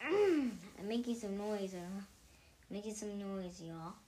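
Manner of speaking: talking between burps; burpy, gassy voice; burping. Real, not acted. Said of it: "keep on burping".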